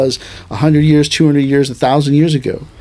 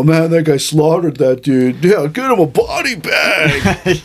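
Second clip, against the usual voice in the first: excited shout; slower than usual. Retold or imitated. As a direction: cheer it like a bloodthirsty fan. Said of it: "They go".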